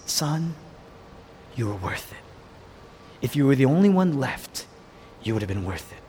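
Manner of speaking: low, soft voice with pauses; tender reassurance. Acted. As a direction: reassure gently, dropping low at the end. Father tenderly speaking to Son.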